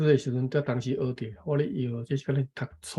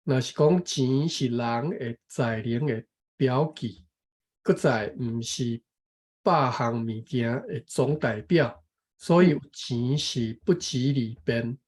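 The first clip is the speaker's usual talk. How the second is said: measured, careful reading of a text; reading aloud; slower than usual. Real, not acted. Taking a turn to read the passage, careful reading aloud. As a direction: read it out phrase by phrase. 来，这段我读一遍吼.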